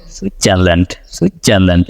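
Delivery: American সুইজারল্যান্ড, relaxed and slurred; American accent. Shown as a demonstration. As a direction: do সুইজারল্যান্ড like a native speaker, dropping the hard d. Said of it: "But ওরা কি বলে?".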